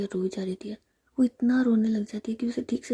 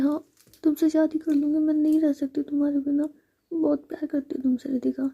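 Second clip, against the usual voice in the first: higher, louder heartfelt avowal; impassioned pleading; 5 semitones higher, 4 dB louder than usual. A narrator's reading. Sami agrees to marry Ritika, impassioned. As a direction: insist on love with urgency.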